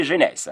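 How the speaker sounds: jeunesse said "zheh-NESS"; soft French zh opening jeunesse, ending in -ess; French pronunciation. Shown as a demonstration. Teacher models a Bible book for beginners, jeunesse in French "zheh-NESS". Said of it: "Let me say jeunesse".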